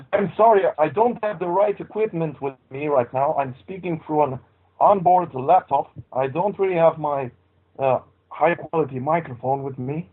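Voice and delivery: thick put-on Transylvanian accent; hammed-up Transylvanian count accent. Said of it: "my incredible Transylvanian accent".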